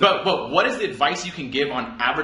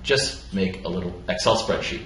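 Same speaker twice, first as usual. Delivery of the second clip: Derek Sivers quote; 5 semitones lower than usual. Retold or imitated. Cohost quoting Derek Sivers' advice, low and relaxed. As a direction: start on a whisper, then calm and low. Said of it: "And what, he's like".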